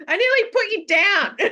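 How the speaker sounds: laughing threat. Real, not acted. Owner joking to her dog while laughing.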